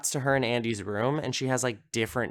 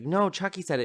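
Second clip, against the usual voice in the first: higher-pitched mock child protest; lightly voiced six-year-old; 7 semitones higher than usual. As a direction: imitate a little kid insisting. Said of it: "like, a six-year-old".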